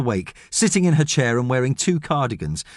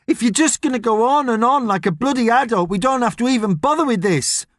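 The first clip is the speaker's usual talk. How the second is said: put-on boy's voice; 10 semitones higher than usual. A narrator's reading. Boy James arguing with Thomas.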